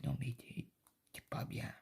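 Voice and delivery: hushed, unvoiced retort; husband's retort. Quoting her husband brushing off her milk worry, whispered.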